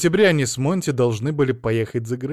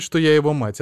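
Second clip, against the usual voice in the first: usual speaking voice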